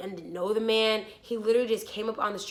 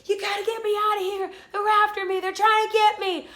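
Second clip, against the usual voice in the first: high, panicked begging, retold; imitated frantic plea; 9 semitones higher, 4 dB louder than usual. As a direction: plead like a hunted man. Imitates frantic man on car hood.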